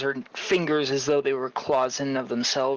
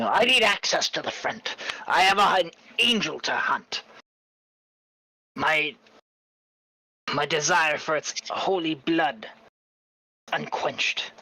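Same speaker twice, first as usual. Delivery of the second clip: ringmaster; 3 semitones higher than usual. Acted. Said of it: "the ringmaster starts by stating".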